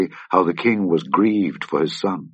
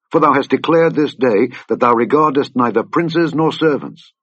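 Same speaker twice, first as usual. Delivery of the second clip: rising, pressing, higher reproach; stern rebuke; 3 semitones higher than usual. Acted. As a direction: scold the king into action. Joab rebukes the grieving king.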